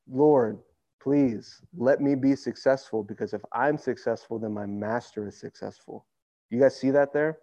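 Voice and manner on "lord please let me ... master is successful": sincere prayer. Pretend. Preacher voicing the servant's humble prayer, sincere. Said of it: "This isn't".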